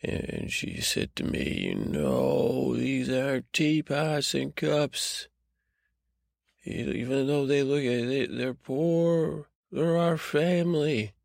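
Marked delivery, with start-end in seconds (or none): 1.7-11.1 Nana pleading. Acted. Nana scolding the boy.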